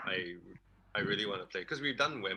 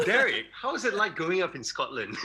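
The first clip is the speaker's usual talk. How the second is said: laughing; 9 semitones higher, 7 dB louder than usual. Pretend. Mock interview question to Derek.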